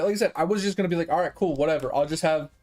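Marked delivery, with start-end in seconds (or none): 1.1-2.5 low, unbothered self-quote; easygoing acceptance. Retold or imitated. Customer settling for ketchup with nuggets, casually fine with it. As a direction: shrug it off casually, a little lower. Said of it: "And I was fine with it".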